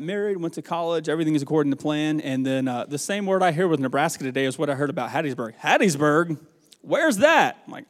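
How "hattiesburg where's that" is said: puzzled, with the pitch leaping up; baffled surprise. Retold or imitated. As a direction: react as if you've never heard of the place. Voices baffled reaction to town name.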